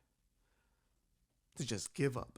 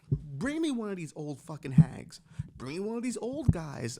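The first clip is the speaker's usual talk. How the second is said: mock demand; 6 dB louder than usual. Demanding any royal spouse.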